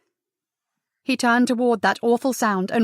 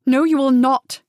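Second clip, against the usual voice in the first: sharp, loud, higher no; fierce refusal; 3 semitones higher, 6 dB louder than usual. Acted. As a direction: cut him off with flashing anger. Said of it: "eyes flashing".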